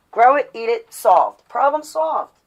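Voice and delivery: real excitement, case closed; triumphant. Real, not acted. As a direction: slam the answer home with glee. Triumphant punchline.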